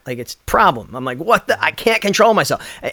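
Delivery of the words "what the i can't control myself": high-pitched self-exasperated outburst; mock exasperation. Him scolding himself over a bowl of candy, mock exasperation. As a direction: voice jumps up in playful despair. Acts out despair at own willpower.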